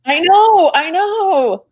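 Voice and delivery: giggly, sheepish agreement; amused and a bit embarrassed; laughing. Real, not acted.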